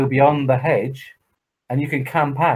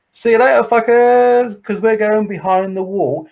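higher, louder taunting send-off; gloating farewell; 9 semitones higher, 5 dB louder than usual. Retold or imitated. Campers taunt the day visitors going home, loud and gloating. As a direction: crow at them as they leave.

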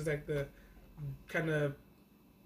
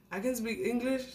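higher, rising disbelief; incredulous rant; 6 semitones higher, 3 dB louder than usual. Retold or imitated. Girl can't speak to grandfather in his language. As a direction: pile up the frustration, line by line. Retold frustration at the language barrier.

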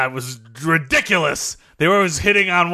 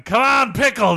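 high mock crowd cheer; root for the pickle mascot; 5 semitones higher than usual. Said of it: "We were going".

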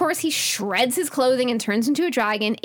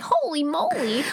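higher holy moly; 6 semitones higher than usual. Retold or imitated. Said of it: "Ava's like".

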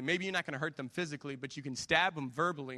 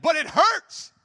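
much higher, louder wounded cry; hurt wife; 12 semitones higher, 10 dB louder, slower than usual. Retold or imitated. Wife cries out to husband that his words hurt, much higher and louder. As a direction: let the hurt break through. Wife voiced answering harsh truth.

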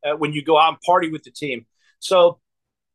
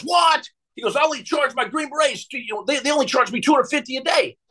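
high-pitched mock disbelief at a price; incredulous outburst; 7 semitones higher than usual. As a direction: imitate a client balking, pitch jumping way up. Retold outraged reaction to the price.

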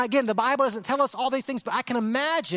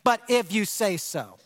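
sincere; 3 semitones lower than usual. Shown as a demonstration. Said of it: "we've forgotten how to say".

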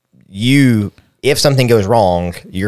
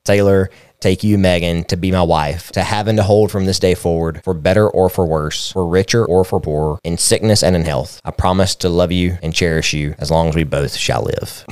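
saying wedding vows. Shown as a demonstration. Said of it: "I'm gonna read the, the traditional vows".

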